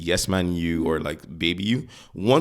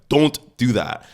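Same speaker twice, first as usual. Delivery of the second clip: louder, higher command; scary telling-off; 4 semitones higher, 5 dB louder, slower than usual. Acted. Parent to kid painting the wall, loud telling-off. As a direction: startle the child with a firm order. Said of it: "scare the life into the kid and be like".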